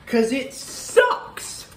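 breathy whispered aside. Real, not acted. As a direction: rasp it out under breath. Hoarse aside after burning.

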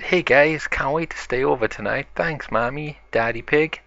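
a touch of excitement, brightest on the opening words; excited. Acted. B one greets friends at the sleepover, excited. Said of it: "who is really excited".

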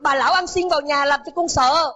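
put-on high, loud, panicked child cries for help; frightened child screaming. A narrator's reading. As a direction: scream to your parents, terrified of a stranger. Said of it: "trẻ hét lên". (đứa trẻ hoảng sợ hét to gọi bố mẹ)

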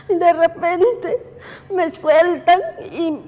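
slow, tearful catch in the throat; words breaking up with real tears. Real, not acted. Widow recalling the killing, voice breaking. Reliving her husband's murder.

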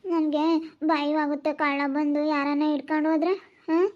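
lightly voiced frightened girl; a child confessing her fear; scared young bride. Girl voice again, fearful.

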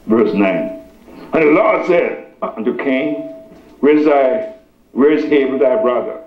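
measured reading with long pauses; scripture reading. Real, not acted. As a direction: read it out solemnly, phrase by phrase. Reads scripture to congregation.

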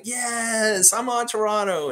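mock joy. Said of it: "then it's just like".

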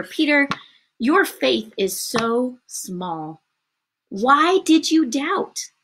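very slow, emphatic rebuke; Jesus reproving Peter. Acted. Jesus to Peter after catching him, slow reproof. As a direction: draw out each word in reproof.

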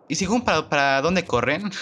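high, puzzled ask, stretching dónde; puzzled rising question. Real, not acted. To viewers, baffled where enemies run, high puzzled question. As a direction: wonder aloud where they all run.

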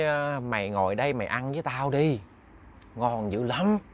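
an elder coaxing gently; soft old man. Acted. Old man invites eating.

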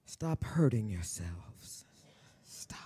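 slow, soft whisper; whispered plea. Real, not acted. Star begging the audience to stop self-harm, slow whisper. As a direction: plead gently in a whisper. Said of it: "pleading intimate aside".

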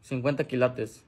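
slow, soft, low delivery; low-voiced boast. Alucín showing off jewellery in tutorial, low slow boast. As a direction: drop low and slow to show off.

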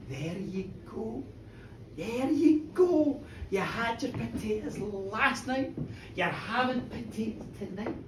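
drip sarcasm, drawing out the opening words; softly bitter, with mock good wishes. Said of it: "this sarcasm".

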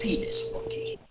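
high falsetto squeak; squeaky high voice. Pretend. Silly nickname repeated high.

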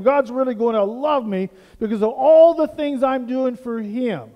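a mildly boastful, self-satisfied churchgoer; voicing Cain. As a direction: brag like a man buying God's favor. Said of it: "That's Cain".

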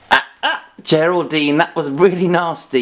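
high yelped "ah, ah", then telling off; mock scolding. Teacher to giraffe puppet that pinched, mock scolding. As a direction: playfully scold a naughty pet.

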